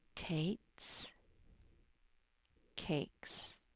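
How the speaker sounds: whispered reading aloud, words barely voiced. The speaker whispers the words while the listener reads along: whispering. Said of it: "I'm whispering and you're reading".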